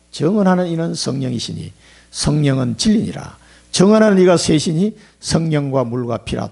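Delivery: slow, measured Bible reading; scripture reading. Acted. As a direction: read the verse as holy words, slowly. Reads scripture aloud.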